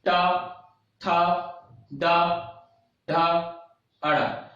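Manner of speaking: टा, था, डा, ढा, अड़ा said one at a time with pauses; syllable drill. Shown as a demonstration. Teacher demonstrates the retroflex row, syllable drill of टा, था, डा, ढा, अड़ा. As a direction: sound out the retroflex row singly, टा through अड़ा. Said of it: "और टा वर्ग".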